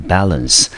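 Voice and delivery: balance said clearly, stress on BA; model pronunciation. Shown as a demonstration. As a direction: say balance, first syllable stressed. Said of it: "我们念成balance". (示范念balance)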